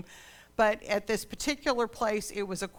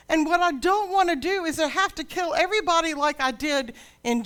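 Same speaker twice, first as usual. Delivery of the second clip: loud, higher, booming divine rebuke; voice of God; 7 semitones higher, 6 dB louder than usual. Acted. God rebuking people who think their grapes are better, booming loud. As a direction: thunder it down from heaven at proud people. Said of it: "God says".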